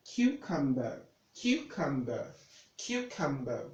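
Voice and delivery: "cucumber" opening on KYOO, falling after it; correct pronunciation. Shown as a demonstration. Tutor drilling the Q sound for learners, correct pronunciation. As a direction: repeat "cucumber" as KYOO-cum-ber, evenly. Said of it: "Now this becomes Q".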